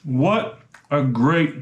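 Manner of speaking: talking with a mouth full of food; words pushed through a mouthful. Real, not acted. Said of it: "I shouldn't talk with my mouth full".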